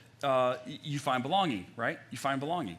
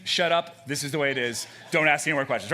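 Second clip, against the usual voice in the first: blunt; 5 dB louder than usual. Retold or imitated. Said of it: "That just means".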